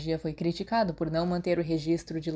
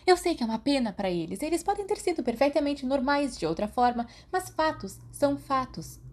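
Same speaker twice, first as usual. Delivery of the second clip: put-on much higher, insistent girl's voice; Marlene arguing; 7 semitones higher than usual. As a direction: lay down the facts, voice up high.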